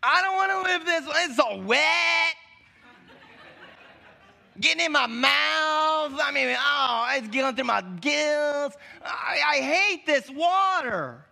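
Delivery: half-laughing mock fish rant; whiny rebellious fish. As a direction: play the fussy fish whining about being wet. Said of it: "Imagine a fish that rebels against the water".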